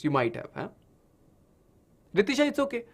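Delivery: ordinary delivery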